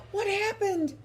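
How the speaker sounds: high, startled question; surprised. A narrator's reading. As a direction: ask in sudden shock. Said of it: "very surprised".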